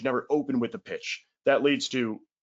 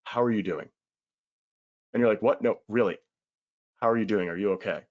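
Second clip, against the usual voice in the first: genuine concern; 2 semitones lower than usual. Pretend. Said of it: "genuinely says".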